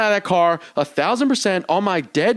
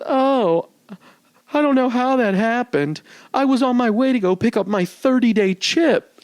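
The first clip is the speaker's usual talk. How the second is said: higher-pitched imitation of the lady driver; retold white lady driver; 5 semitones higher than usual. Woman driver explains herself after the crash, imitated in a high voice. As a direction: put on her high, excuse-making voice. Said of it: "this is a white lady".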